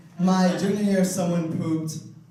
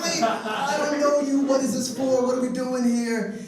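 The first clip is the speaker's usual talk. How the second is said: higher, puzzled, slowed "wait"; mock confused alarm; 7 semitones higher than usual. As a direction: act taken aback by a stranger's message. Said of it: "And I was like".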